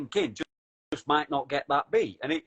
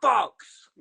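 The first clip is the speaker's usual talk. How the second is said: loud, high-pitched mock outrage; mock scream; 8 semitones higher, 7 dB louder, slower than usual. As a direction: shout abuse at the TV. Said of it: "I'm screaming at the T V".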